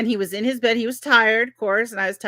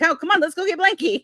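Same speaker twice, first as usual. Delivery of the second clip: higher sing-song coaxing; coaxing mom; 9 semitones higher than usual. Retold or imitated. Mother luring toddler to nap with blanket, sing-song. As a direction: lightly coax a sleepy toddler.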